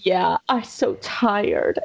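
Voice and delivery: put-on slow, drawn-out little-kid reply; imitated tired toddler. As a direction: mimic a worn-out toddler after a tantrum. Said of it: "And she said".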